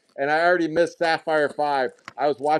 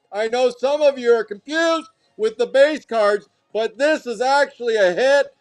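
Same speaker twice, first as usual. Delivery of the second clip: excited hype; 5 semitones higher than usual. Real, not acted. Host hypes the rare hit.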